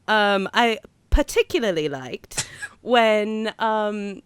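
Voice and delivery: put-on British accent, haltingly held; bad London accent. Host describing the trailer, bad London accent. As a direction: keep up an amateur London accent. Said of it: "talk in a bad accent".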